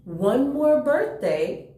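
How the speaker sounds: put-on lively storybook reading for kids; gentle picture-book read-aloud; reading to children. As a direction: read it like story time for little ones.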